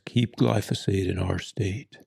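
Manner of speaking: lightly voiced cowboy ad announcer; a hint of a drawling country ad voice; deep cowboy voice. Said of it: "deep cowboy voice".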